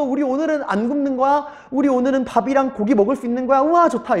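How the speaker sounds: put-on high sing-out like happy kids; excited children. Children looking forward to a meal, excited. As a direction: gush like a thrilled child. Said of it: "애들은 얼마나 신났겠어요".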